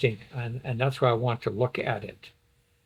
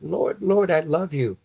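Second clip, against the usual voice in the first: lifted, loving cry to the Lord; emotional plea; 4 semitones higher than usual. Acted. Believer telling the Lord of love, emotional. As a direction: call out tenderly, a little higher. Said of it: "it could be a, an emotion".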